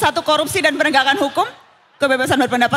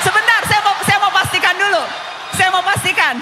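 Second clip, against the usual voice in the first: raised, higher voice to be heard; 5 semitones higher than usual. Real, not acted. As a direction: push through the noise to confirm. Host presses over crowd noise. (bertanya keras dan mendesak)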